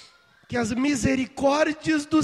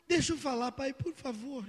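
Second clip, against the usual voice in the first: put-on child crying; 11 dB quieter than usual.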